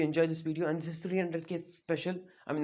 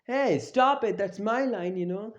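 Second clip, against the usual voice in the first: high, louder mock objection; mock protest; 6 semitones higher, 4 dB louder than usual. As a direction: protest in a raised, higher voice. Kakashi objects to stolen line.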